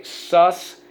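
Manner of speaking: "suspicious" broken into sus, pi, cious with long pauses; syllable by syllable. Shown as a demonstration. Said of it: "Let's go".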